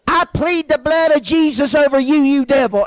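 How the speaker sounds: a lightly voiced preacher casting out the devil; a hint of a fiery preacher pleading the blood; rebuking preacher. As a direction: rebuke him the way a little preacher would. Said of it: "he goes".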